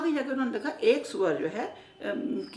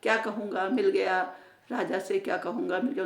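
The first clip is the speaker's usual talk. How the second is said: excited shout; 2 semitones lower than usual. Acted. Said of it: "चिल्लाया".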